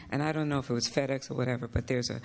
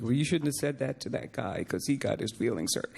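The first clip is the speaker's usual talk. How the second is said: put-on voice of a reproving colleague; mock reproachful voice; imitated scolder; 2 semitones lower than usual. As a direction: lightly mimic someone telling you off. Voicing someone scolding her.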